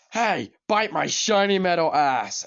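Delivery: Bender. Retold or imitated. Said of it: "Bender just said this".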